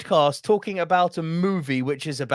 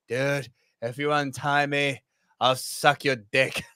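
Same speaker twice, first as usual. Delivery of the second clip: quoting Jack Black; 3 semitones lower than usual. Retold or imitated. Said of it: "he drops one of the best lines".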